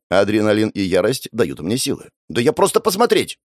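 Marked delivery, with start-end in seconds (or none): 2.3-3.4 put-on much higher girl's voice, protesting; defensive girl. Caught sister protests to her brother, higher defensive voice. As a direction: make a lame excuse indignantly.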